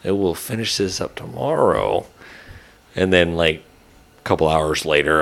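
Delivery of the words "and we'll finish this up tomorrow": higher-pitched, wishful inner voice; secretly hopeful. Retold or imitated. Retelling his secret wish for leftover prime rib, secretly hopeful. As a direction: voice a sly private hope, pitched up. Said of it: "I was secretly like".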